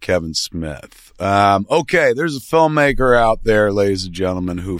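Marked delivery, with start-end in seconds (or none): 0.0-1.1 lower, slow host intro; slow low name drop. Real, not acted. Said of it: "I'm your host".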